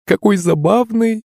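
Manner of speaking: high, amused cry; delighted exclamation. A narrator's reading. Princess delighted by the drunk parrot, high exclamation. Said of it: "воскликнула Меньшикова".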